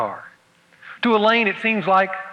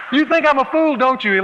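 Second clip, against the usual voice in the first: higher and louder, tearful accusing question; tearful Elaine; 7 semitones higher, 4 dB louder than usual. Acted. Elaine asking Roger if he thinks her foolish, tearfully. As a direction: plead through mock tears. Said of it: "Elaine says".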